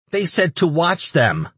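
very high, slow creature voice; frightened little demon. A narrator's reading. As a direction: squeak it out in fear. Cowering demon answers its captor.

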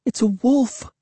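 high, fearful stage whisper; hushed whispered cry. A narrator's reading. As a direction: cry out while keeping it hushed. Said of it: "she cried in a hushed whisper".

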